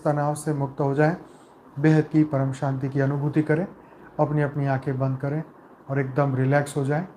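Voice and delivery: calm, measured meditation voice with long pauses between phrases; guided meditation. Acted. Leader guiding souls with eyes closed into peace, calm meditative delivery.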